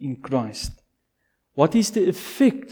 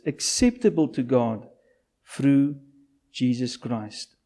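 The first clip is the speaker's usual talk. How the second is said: scripture reading. Acted. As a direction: read the passage aloud to the church, deliberately.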